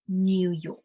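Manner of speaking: NEW said as "nyoo" in New York; British pronunciation. Shown as a demonstration. Teacher showing learners there's a Y sound in New York, British pronunciation. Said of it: "there's already a W".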